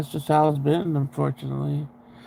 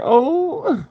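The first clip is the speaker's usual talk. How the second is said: high, sudden gasp of delight; real shocked exclamation; surprised oh; 10 semitones higher than usual. Real, not acted. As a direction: listener surprised by the granddaughter's comeback, high exclamation. Reacting to granddaughter's line.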